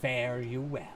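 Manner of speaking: slow, drawn-out S's, lightly hissed; snake voice. Acted. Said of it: "what the fuck I'm trying to do with the fucking snake voice".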